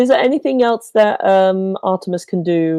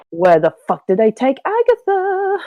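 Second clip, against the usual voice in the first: angry demand climbing higher; Artemis, mad; 5 semitones higher than usual. Acted. Player voicing Artemis over her taken friend, angry. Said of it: "but she's fucking mad".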